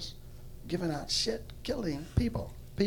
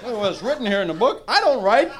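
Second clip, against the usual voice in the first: God shouting; 6 semitones higher, 10 dB louder than usual. Acted. God retorts about the book.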